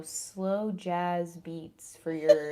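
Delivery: slow, drawn-out late-night radio delivery; slow jazz radio host. Shown as a demonstration. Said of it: "radio station type thing".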